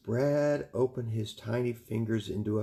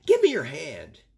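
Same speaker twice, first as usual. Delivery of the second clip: Chester voice; 5 semitones higher, 9 dB louder than usual. Acted. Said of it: "he told her".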